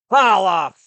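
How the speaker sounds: loud, high whoop of "Holla"; loud hype-man whoop. Real, not acted. Comic shout-out.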